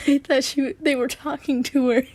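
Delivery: amused, laughing mid-sentence. Real, not acted. Reader reacting to the story, laughing as she talks. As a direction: talk through a laugh.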